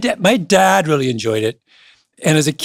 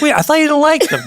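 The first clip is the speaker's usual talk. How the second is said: high, louder disbelieving question; surprised partner; 13 semitones higher, 4 dB louder than usual. Retold or imitated. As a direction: imitate his baffled partner, pitched way up. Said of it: "She's like".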